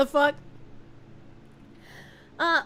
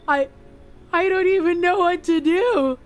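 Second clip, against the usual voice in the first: lightly voiced dim-witted boy, worried and lost; dumb voice; 2 semitones higher than usual. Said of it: "I gave him a dumb voice".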